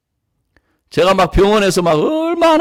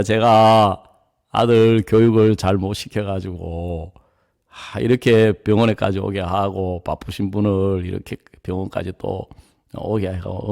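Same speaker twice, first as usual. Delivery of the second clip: humble apology; 5 semitones lower, 3 dB quieter than usual. Retold or imitated. Father apologizing to mother.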